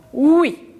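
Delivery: drawn-out teacher's oui; sound demo. Shown as a demonstration. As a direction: model the sound oui clearly for the class. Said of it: "c'est le son".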